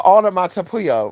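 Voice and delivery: "onomatopoeia" with middle syllables swallowed; attempted pronunciation. Real, not acted. Retrying a hard word, fumbled "onomatopoeia". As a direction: stumble through "onomatopoeia", losing syllables. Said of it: "how to pronounce that word".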